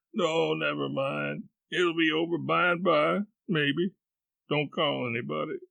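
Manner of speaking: put-on pained boy; feigned invalid.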